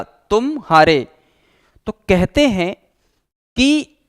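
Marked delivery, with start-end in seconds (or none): 0.0-1.1 "तुम" stressed, gap, then "हारे" falling; slowly, "तुम" ... "हारे"; slow with a pause. Shown as a demonstration. Teacher repeats for students, "तुम" pause "हारे" slowly. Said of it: "इन दोनों शब्दों के बीच में जो गैप है".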